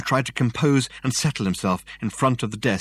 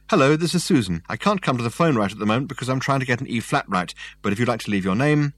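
answering machine voice; 3 semitones higher, faster than usual. Acted. Answering machine message played.

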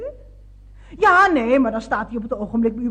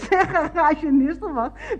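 slow, words through laughter; laughing; slower than usual. Acted. Caller laughing as she addresses the garage. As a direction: laugh while calling out the name.

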